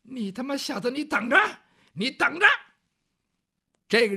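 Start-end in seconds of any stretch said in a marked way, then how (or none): 0.1-2.5 threatening ruffian. Acted.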